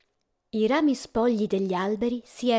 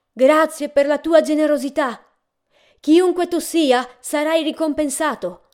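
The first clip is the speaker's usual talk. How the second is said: raised, louder thanks to the whole house; calling out thanks; 7 semitones higher, 8 dB louder than usual. Acted. Departing guest thanks his unknown host, calling out. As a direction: call your gratitude to someone out of sight.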